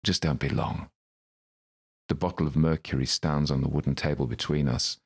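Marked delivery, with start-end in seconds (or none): 0.0-0.9 a touch of soured menace; sweet going sour. Acted. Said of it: "His voice tails off, the sweet going sour".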